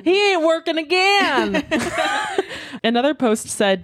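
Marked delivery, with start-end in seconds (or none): 0.0-2.8 laughing. Real, not acted. Joking mock quote, laughing.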